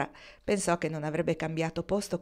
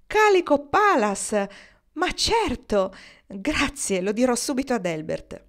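put-on delighted like a happy child; 5 semitones higher, 6 dB louder, slower than usual. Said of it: "scoppiò a ridere come una bambina felice".

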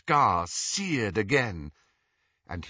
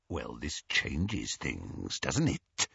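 very low, slow, hushed villain; menacing whisper; 9 semitones lower, 7 dB quieter, slower than usual. A narrator's reading. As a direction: draw it out softly with quiet threat. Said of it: "whispered Greyback".

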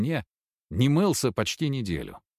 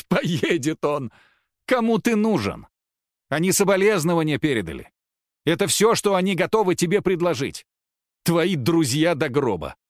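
loud, higher, scornful jeering; mocking laughter; 6 semitones higher, 5 dB louder than usual. A narrator's reading. Wife jeers at her husband's plan to visit his friends. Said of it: "Маша расхохоталась".

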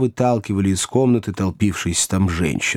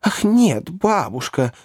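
put-on high girlish exclamation; young ladies' cry; 9 semitones higher, slower than usual. A narrator's reading. Young ladies answering their grandmother, high exclamation. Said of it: "крикнули обе юные леди".

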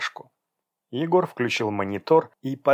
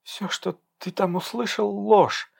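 mumbled; 9 semitones higher than usual. Acted. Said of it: "промямлила Даша".

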